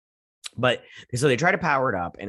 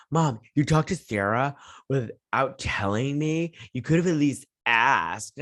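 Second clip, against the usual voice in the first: higher-pitched teen indignation, lightly imitated; mild mock yelling; 3 semitones higher than usual. Son confronting his mom about Sarah, mild mock yelling. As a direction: scold Mom like an aggrieved son. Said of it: "he's yelling".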